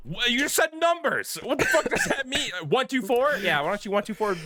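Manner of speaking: high, baffled disbelief; what does that even mean; incredulous. Real, not acted. Mocking confused leader's callout.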